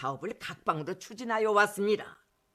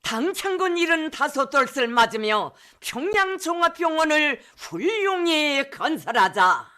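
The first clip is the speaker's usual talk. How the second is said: north korean accent; 7 semitones higher, 6 dB louder than usual. Real, not acted. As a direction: proclaim the slogan, high and loud. Slogan proclaimed on state TV.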